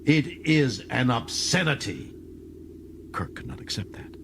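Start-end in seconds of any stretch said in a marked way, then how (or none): 0.1-2.1 rage. Acted. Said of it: "Torl jumped to his feet in rage".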